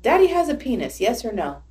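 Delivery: high childlike question, lightly voiced; little daughter's voice. Mom quoting her daughter from the back seat, high childlike voice. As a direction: ask it like a curious four-year-old. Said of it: "I hear her say".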